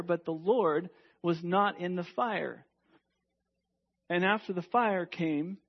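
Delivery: building dramatic reading. Acted.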